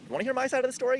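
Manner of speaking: loud, very high-pitched retold question; retold plea. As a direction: act out pleading your case, voice jumping up high. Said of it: "I was like".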